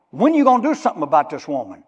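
fast, loud pushy question; impatient demand. Acted. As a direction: press him hard. Disciples pressing Jesus.

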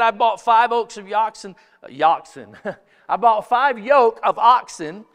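loud, emphatic guest's excuse. Acted. Preacher reading the banquet guest's excuse, loud and emphatic. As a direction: proclaim the excuse with a stumble.

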